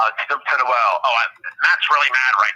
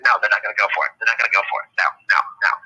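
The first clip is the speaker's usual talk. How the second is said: imitated refusal; 6 semitones lower, much faster than usual.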